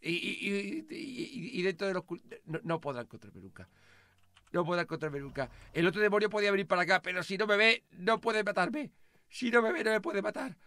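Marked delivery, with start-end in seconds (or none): 0.0-5.5 much softer, lower, hushed; hiding hush. Acted. Hiding from the demon, talking under his breath. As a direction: keep it down so the demon can't hear.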